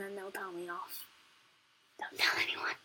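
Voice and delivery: sleepy secretive whisper. Real, not acted. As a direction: whisper it half asleep. Secret told to the camera.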